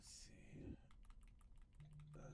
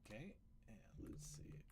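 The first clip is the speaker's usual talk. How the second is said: whispering; 8 dB quieter than usual. Real, not acted. Muttering to himself while building.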